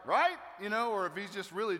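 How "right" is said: high, loud jokey check; mock sarcastic. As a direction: toss it out like a punchline seeking agreement. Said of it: "being sarcastic and just like".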